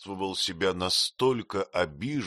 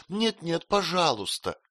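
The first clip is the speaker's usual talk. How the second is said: high, pleading cry; 9 semitones higher than usual. A narrator's reading. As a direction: call it out higher. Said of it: "крикнула Дора". (вскрик жены, выше)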